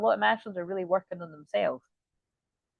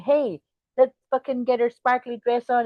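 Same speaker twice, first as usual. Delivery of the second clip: higher, lightly hammed-up party invitation; mock excited; 4 semitones higher, 4 dB louder than usual. Reader voicing someone off to party, mock excited. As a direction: play a friend rallying for a night out.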